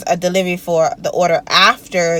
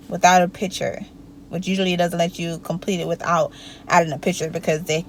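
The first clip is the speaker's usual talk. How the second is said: talking while chewing gum; words around a wad of gum. Real, not acted. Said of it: "excuse the gum".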